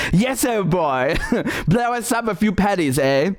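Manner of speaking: laughing through a mock imitation; mocking laughter. Mocking the Belfast bomb trainer, laughing imitation. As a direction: jeer along with laughs between phrases.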